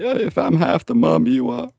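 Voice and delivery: high, syrupy mocking impression of fake tears; sarcastic high fake-sincere voice; mock sweet Nia. Mocking Nia's crocodile tears.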